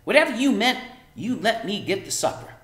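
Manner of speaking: high, loud busy mother; bustling Homily. A narrator's reading. Mother shooing daughter from kitchen, high loud. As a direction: shoo her aside.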